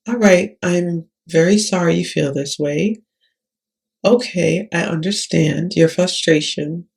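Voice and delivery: steady calm voice to defuse anger; calm and soothing. Shown as a demonstration. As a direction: talk the upset patient down gently. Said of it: "how much more calm in that is".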